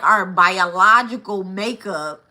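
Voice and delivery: slow, deliberate delivery of each word; said slowly. Shown as a demonstration. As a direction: spell it out slowly for emphasis. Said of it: "I have to say that slowly".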